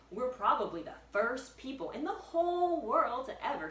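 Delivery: high, loud with wonder; high excited boy. Acted. Jack excited.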